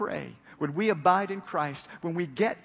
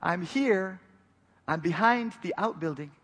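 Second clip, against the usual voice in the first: loud, higher call across the yard; 6 semitones higher, 7 dB louder than usual. Retold or imitated. Father calls to his daughter from behind the shed, loud. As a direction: call so your daughter can hear you. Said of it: "And so I called".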